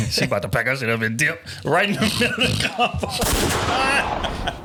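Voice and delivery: high, laughing tease. Real, not acted. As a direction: laugh through the joke.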